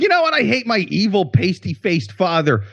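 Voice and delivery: lightly acted kid sounding off at dad; rebellious son. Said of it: "If little Jake grew up and he was like".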